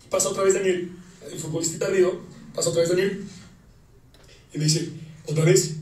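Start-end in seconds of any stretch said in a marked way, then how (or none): 5.3-5.7 aggressive. Retold or imitated. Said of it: "pero ahora de manera agresiva".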